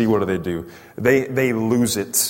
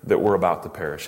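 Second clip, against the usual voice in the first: pointed, accusing question; mildly raised accusation. Acted. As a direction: demand an answer, reproachfully. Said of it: "definitely some accusation here".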